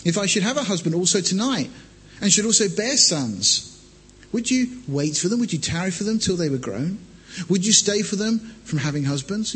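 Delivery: measured Bible reading voice; scripture reading. Acted. Preacher reads Ruth to congregation, measured. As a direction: read the passage steadily to the church.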